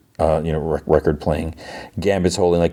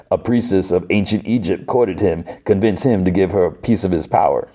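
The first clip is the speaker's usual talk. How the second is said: bad put-on Cajun accent; hammy Cajun storyteller; Gambit. Gambit recounts Apocalypse's old love, badly faked Cajun accent. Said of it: "the worst Gambit accent ever".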